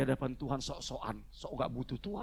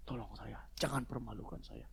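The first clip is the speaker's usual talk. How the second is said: understated sorrowful prayer; imitated tearful plea; 2 semitones lower, 5 dB quieter than usual. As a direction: act out a humble cry for help, kept quiet. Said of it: "terseduh-seduh. Dia bilang".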